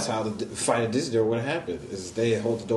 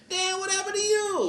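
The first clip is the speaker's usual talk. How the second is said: very high, drawn comic astonishment; shocked cashier. Acted. Cashier seeing whooped customer, mock shocked. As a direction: marvel at a battered customer. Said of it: "go inside the cashier".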